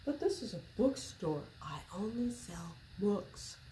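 Dog explaining. Acted. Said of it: "said Dog".

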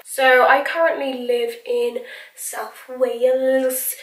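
bad, breathy mock Welsh accent; hammed-up Welsh accent, half-whispered. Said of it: "that wasn't a very good Welsh accent".

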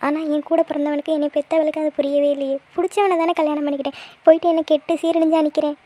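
mildly tearful, wounded pleading. Acted. Aunt laments her family's rejection to niece, tearful. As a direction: plead to be understood, a touch of crying. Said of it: "நீங்க ஏன் இதுக்கு போய் அழுதுட்டுலாம் இருக்கீங்க".

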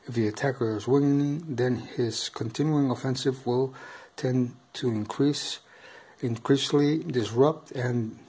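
stiff monotone rulebook reading; robotic voice. Real, not acted. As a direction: read it out flatly like a robot. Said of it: "I know I sound like, uh, a bit robotic here".

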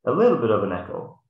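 muffled, echoey through hands; talking through cupped hands. Shown as a demonstration. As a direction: cup your hands and talk into them. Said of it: "when I'm talking like this or if I'm talking like this".

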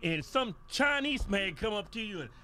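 loud, high, laughing curses; laughing rant. Acted. Cursing Santa for making his little boy cry, loud and laughing. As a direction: spit laughing curses at him.

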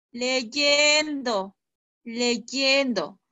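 "Leyendo" said twice, each with a firm falling end; emphatic answer. Shown as a demonstration. Teacher tells pupils how to improve, emphatic repeated answer. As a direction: hammer home "leyendo" twice. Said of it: "¿y cómo se logra eso?".

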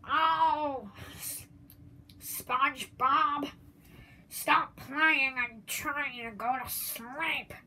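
slow, lightly voiced grumpy neighbour; Squidward impression. Kid doing a slow, lightly voiced Squidward scolding SpongeBob. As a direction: drag it out like a tired grouch. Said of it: "I think I can do Squidward".

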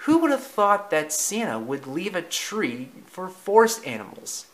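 high-pitched start, falling away in wonder; amazed Thomas. Acted. Thomas hears about the pine tree, amazed. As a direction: voice an amazed storybook friend.

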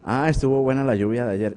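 lightly voiced chit-chat about the rain; small talk chatter. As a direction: make idle talk with the office neighbour. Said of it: "lo que comentamos es". (charla trivial con el vecino de cubículo, apenas actuada)

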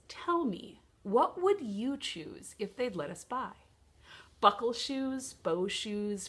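bouncy rhythmic recital with swooping pitch; lilting children's verse; poem for children. Acted. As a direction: read it playfully, pausing after each short phrase.

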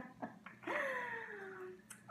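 soft, high-pitched laugh; quiet high laugh, close to tears; emotional laugh. Real, not acted. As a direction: let out a small, moved laugh. Moved reading old journal entries.

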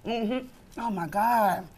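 talking while chewing; words round a bite of food; mouth full. Real, not acted. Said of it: "I hate eating with my mouth full".

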